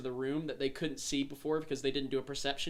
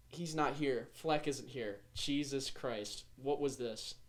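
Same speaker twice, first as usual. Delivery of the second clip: acted letdown; 6 dB quieter than usual. Acted letdown at not finding Fleck.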